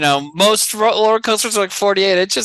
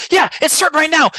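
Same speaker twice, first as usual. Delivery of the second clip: higher, eager attendant voice; imitating ride attendant; 8 semitones higher, 3 dB louder than usual. Attendant pulling kid into the show, lightly voiced eager. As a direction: chirp like a pushy ride worker. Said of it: "She goes".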